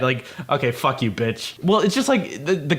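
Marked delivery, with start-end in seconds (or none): 0.5-1.6 low, soft, dismissive brush-off; tossing her aside with a lower, softer sneer; mock dismissive sneer. Rejected guy writing off the girl, low mock sneer.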